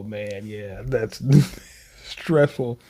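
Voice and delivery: slow breathy whisper with a laugh; amused whisper. Real, not acted. Reacting to awkward manga scene.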